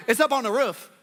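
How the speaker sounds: "roof" with a short vowel, like "ruff"; local pronunciation. Retold or imitated. Quoting Arkansas schoolmates, "roof" with a short vowel. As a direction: say "roof" to rhyme with "hoof". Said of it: "they would say things and they'd be like".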